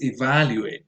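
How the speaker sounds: evaluate with VAL stressed; stress on second syllable. Shown as a demonstration. Introducing the next word to learners, evaluate stressed on VAL. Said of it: "stress goes on the second syllable".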